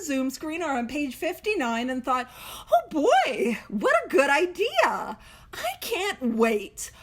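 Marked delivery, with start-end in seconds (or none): 2.7-6.9 mock enthusiasm. Mocking newcomer's view of steps.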